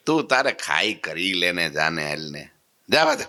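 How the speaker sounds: offhand Kathiawadi brush-off; dismissive dare. Retold or imitated. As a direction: wave him away casually. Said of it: "મહારાજે આવો tone માર્યો".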